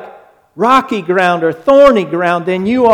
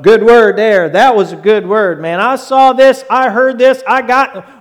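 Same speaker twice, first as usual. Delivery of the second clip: higher and louder, hyped-up churchgoer gushing; enthusiastic praise; 4 semitones higher, 5 dB louder than usual. Retold or imitated. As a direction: gush like a fan after service. Congregant praising the sermon, enthusiastic.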